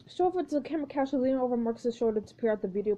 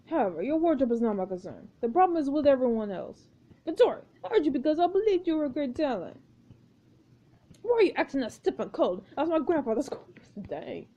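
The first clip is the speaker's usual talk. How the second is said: lightly voiced pompous director; stilted, formal notes to the cast; a hint of an imperious auteur; exacting film director; 2 semitones higher than usual. Plays the director Marcus.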